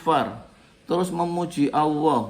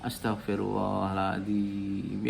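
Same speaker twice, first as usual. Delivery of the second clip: low, slow, quiet plea for forgiveness; softly spoken repentance; spoken istighfar; 5 semitones lower, 5 dB quieter, slower than usual. Shown as a demonstration. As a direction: murmur the istighfar humbly. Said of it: "Contoh, ya".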